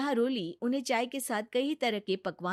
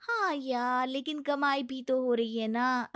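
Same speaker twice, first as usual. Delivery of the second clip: high, lively gossiping voice; chatty office friends; 5 semitones higher than usual. Acted. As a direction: swap childcare news like close colleagues. Office friends chat about maids.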